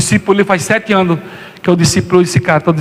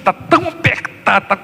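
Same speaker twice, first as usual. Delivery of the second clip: rising anguish; 9 semitones higher than usual. Acted. Preacher building intensity.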